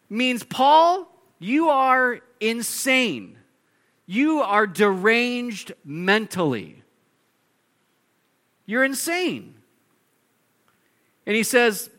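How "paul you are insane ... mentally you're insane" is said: high, slow yelled accusation; yelling. Retold or imitated. Festus yelling at Paul that he is insane. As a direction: drag out the insult, loud and high. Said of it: "As he's yelling this".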